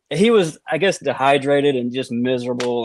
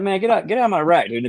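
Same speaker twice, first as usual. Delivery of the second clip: retold yell of a startled roommate; mock yell; 6 semitones higher than usual. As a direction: yell him out of the rack, half in fun. Roommate yelling at naked intruder.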